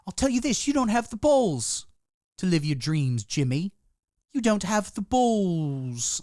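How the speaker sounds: Piers Morgan impression. Piers Morgan taunting Jimmy Savile, mock tough-guy voice. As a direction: needle him like a smug TV host. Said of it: "saw Jimmy Savile and said".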